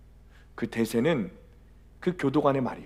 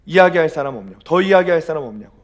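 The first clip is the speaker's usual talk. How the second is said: loud, raised commandant's challenge; angry retold shout, repeated with force; furious yelling; 3 semitones higher, 9 dB louder than usual. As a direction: bellow it at the prisoners. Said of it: "악을 쓰는데".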